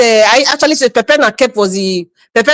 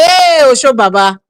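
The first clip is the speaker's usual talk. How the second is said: crowd hailing. Retold or imitated. Recalling how everybody hailed the governor, mock hailing. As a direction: lightly mimic a crowd hailing its hero. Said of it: "Everybody was hailing".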